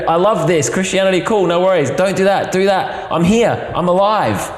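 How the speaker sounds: God popping down in an English voice; chirpy mock English accent. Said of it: "God might be English".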